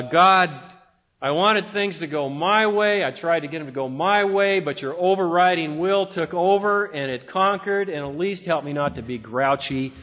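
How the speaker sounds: mildly resigned, sighing prayer; resignation. Shown as a demonstration. Preacher acting a grudging prayer, mild resigned sigh. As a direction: give in to God with a grudging sigh. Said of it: "a tone of resignation".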